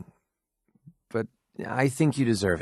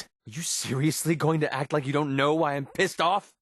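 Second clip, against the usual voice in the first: pitched-up, indignant question; angry disbelief; 4 semitones higher than usual. Acted. Confronting someone who plays innocent, angry. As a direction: challenge them, plainly annoyed. Acted quarrel, angry challenge.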